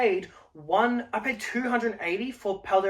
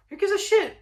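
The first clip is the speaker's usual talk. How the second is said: exasperated high shout; 12 semitones higher than usual. Real, not acted. Scoffing at panic sellers.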